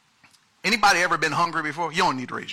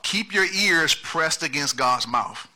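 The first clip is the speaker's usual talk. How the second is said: slow emphatic; slower than usual. Shown as a demonstration. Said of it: "Point number one".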